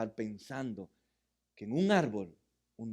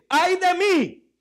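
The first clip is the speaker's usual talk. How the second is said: high, loud, slow wail of woe; stretched lament, high and loud; anguished cry; 16 dB louder, much slower than usual. Acted. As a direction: cry it out like the prophet. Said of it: "Entonces grité".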